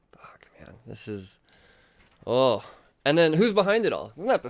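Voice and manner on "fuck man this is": breathless whisper. Real, not acted. Reviewer awestruck by the comic, whispering. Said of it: "overwhelmed by the book".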